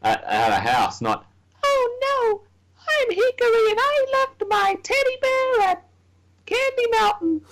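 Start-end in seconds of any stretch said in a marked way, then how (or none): 1.6-7.4 put-on extremely high squeaky little-girl falsetto; put-on high child voice. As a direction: push it up into a tiny high voice. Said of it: "do a high voice".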